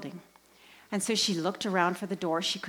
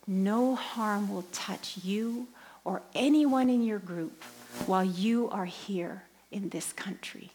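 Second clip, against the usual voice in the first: solemn blessing. Retold or imitated. Priest anointing the woman with oil, solemn blessing. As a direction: bless them gently and deliberately.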